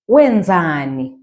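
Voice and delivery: Wenzani said slowly and clearly, every syllable spaced; teacher modelling Wenzani; careful Ndebele word. Shown as a demonstration. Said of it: "we ask it a lot".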